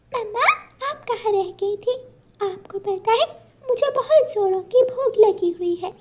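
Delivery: put-on happy little girl.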